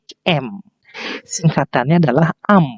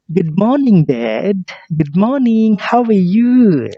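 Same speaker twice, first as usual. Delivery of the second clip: voicing the family; 5 semitones higher, much slower than usual. Teacher voices child and father.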